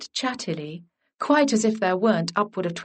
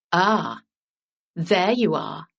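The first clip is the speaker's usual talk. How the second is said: slightly lower, unhurried gentleman's greeting; a touch deeper, calm and assured; 3 semitones lower, slower than usual. A narrator's reading. Lord Kelsey greeting Ally from the hall, a little deeper. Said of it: "in the deep voice that haunted her dreams".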